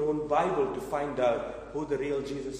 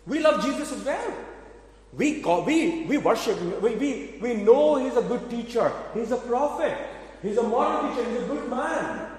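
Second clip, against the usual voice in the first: mock fake believers; 5 semitones higher than usual. Preacher mimics false religions praising Jesus, mildly mocking. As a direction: parrot their praise with a hint of sarcasm. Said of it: "will tell you".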